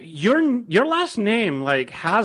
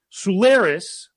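ordinary talk, nothing marked

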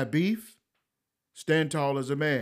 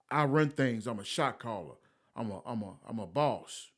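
softer, lightly mocking street boast; 4 semitones lower, 6 dB quieter than usual. Mocking wannabe gangsters bragging they run things, lightly sneering. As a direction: toss off the boss talk with a sneer. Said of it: "have this lingo coming out their mouth".

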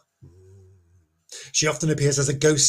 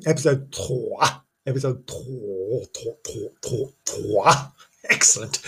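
mock French accent; 3 semitones lower, slower than usual. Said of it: "Lovely accent there".

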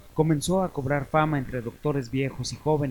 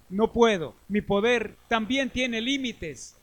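slow, final grim reaper; 8 semitones higher, slower than usual. Acted. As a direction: pronounce it slowly like Death. Death denies the last plea.

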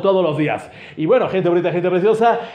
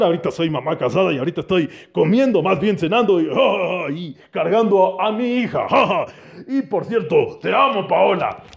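voicing a friend; 2 semitones lower than usual. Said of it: "Paola es su esposa".

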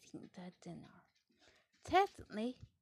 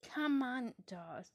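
called out; 3 semitones higher, 4 dB louder than usual. Acted. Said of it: "shouted Peppa".

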